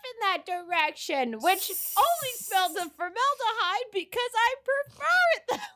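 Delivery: mock menacing Cheryl. Voicing Cheryl's prayer room threat.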